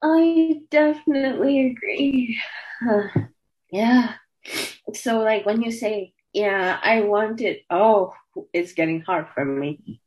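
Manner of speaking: words catching on held-back crying; choked up. Real, not acted. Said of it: "Let me get a breath".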